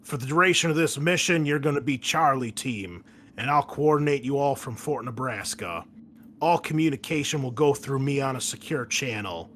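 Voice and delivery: a military commander barking a briefing, lightly voiced; brief the squad like a hard-nosed colonel; a hint of a tough Marine officer; gruff commanding officer. GM continues officer voice.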